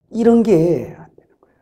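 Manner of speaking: hushed, regretful whisper; whispered confession. Real, not acted. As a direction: drop to a whisper as you confess. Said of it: "confessing what was lacking".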